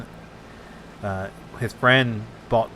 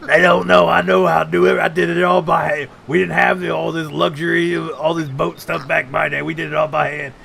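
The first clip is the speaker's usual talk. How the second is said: put-on old captain voice; 4 semitones higher than usual. Friend imitating the old captain bragging, mock gruff. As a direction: play the grizzled captain bragging.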